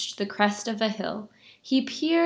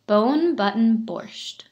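slow title; slower than usual. Shown as a demonstration. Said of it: "title read again".

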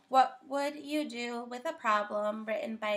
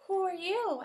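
surprised; 9 semitones higher, 3 dB louder than usual. Acted. On surprised by the creature.

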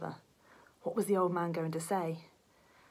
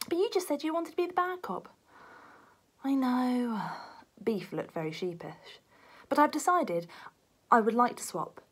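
meek Beef; 5 semitones higher than usual. Acted. Beef timidly asks to swap roles.

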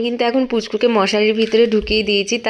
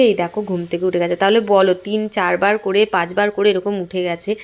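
while brushing teeth. Real, not acted. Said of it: "আমি brush করতে করতে".

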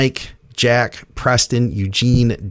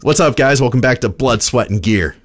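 chill intro; 3 semitones higher than usual. Shown as a demonstration. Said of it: "Was that good enough".

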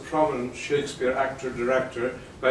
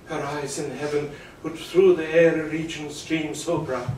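romantic verse recitation. Acted. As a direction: speak it like a lover gazing upward. Recites Romeo's balcony speech.

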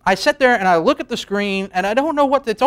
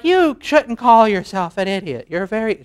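mock mom voice; 3 semitones higher than usual. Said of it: "she doesn't talk like this".

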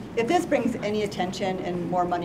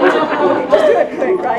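nervous laughing; 7 semitones higher, 10 dB louder than usual. Real, not acted. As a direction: giggle through it, bracing yourself. Bracing for the ice bucket.

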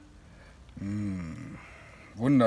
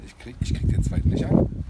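laughing while struggling. Real, not acted. Struggling with second glove.

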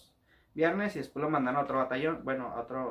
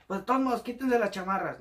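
louder, higher mocking command; harsh order; 5 semitones higher, 4 dB louder than usual. Sergeant ordering recruits to strip off jackets, loud. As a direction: bark it to punish them.

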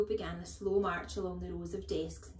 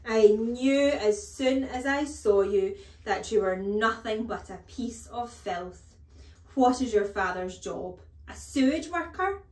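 loud, slow contempt climbing to a high sneering question; outraged, drawn-out insults; bellowing headmistress; 4 semitones higher, 12 dB louder than usual. A narrator's reading. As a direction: berate the boy at full voice. Headmistress rants at Nigel.

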